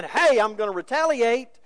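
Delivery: fed-up pushback, preached out loud; retaliating protest. Acted. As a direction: act out someone refusing to be walked on. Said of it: "reacting naturally and saying".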